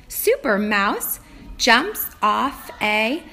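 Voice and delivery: slow, drawn-out storybook reading; reading to a toddler. Acted. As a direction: read each word slowly to a small child. Teacher reads the book aloud.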